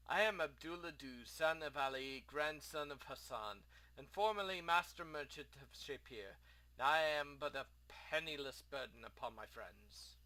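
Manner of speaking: lightly voiced theatrical lament; a hint of woeful old-world merchant; lamenting ruined merchant. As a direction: bemoan your fate with formal grandeur. Plays Abdullah introducing himself.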